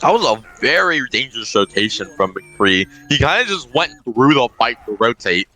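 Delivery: talking while chewing chips; words around a mouthful of chips; mouth full. Real, not acted. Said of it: "Are you e-, eating chips?".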